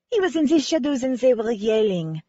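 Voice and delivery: put-on yelling pressed and stretched, light French accent; stress on yelling. Cece telling the sleuth about the argument, stressing yelling. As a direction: lean hard on yelling. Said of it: "emphasized the word yelling".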